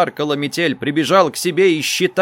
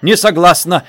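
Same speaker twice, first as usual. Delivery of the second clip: louder curt refusal; sharp refusal; 4 semitones higher, 7 dB louder than usual. A narrator's reading. Mother refusing the operation, sharp and loud. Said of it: "резко сказала мать".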